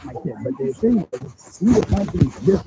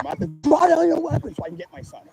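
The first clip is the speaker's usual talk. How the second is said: desperate plea; 10 semitones higher than usual. Retold or imitated. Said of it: "And I'm telling him".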